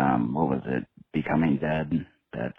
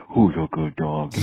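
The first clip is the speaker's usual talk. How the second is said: high, sing-song dog praise; baby talk to a dog; 12 semitones higher, 4 dB louder than usual. Acted. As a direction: coo at the dog like a pet owner. Talking to the dog Piper.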